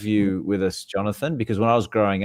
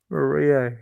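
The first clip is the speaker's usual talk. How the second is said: mock Italian accent; 5 semitones higher than usual. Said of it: "you gotta say it with an accent as well".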